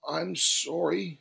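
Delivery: small, sorry voice; apologetic. A narrator's reading. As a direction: apologise timidly, drawing it out. Hurt man apologises to shouting customer.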